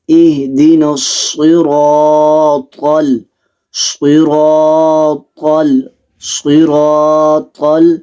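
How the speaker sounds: in صراط Sad, Ra und Ta voll und dunkel sprechen; صراط mit schwerem, dunklem Sad wiederholt üben; volles Sad. Shown as a demonstration. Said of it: "ان کو موٹا کر کے پڑھنا ہے".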